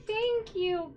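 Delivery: high, loud gushing thanks; excited thanks. Real, not acted. Streamer thanking her first super chat donor, overjoyed. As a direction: gush with real delight. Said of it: "I'm so excited".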